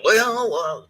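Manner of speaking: high swooping mock reply; mock lecturing. Housemaster answering the teenager's request, mock lecturing. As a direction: put on a drawn-out authority figure.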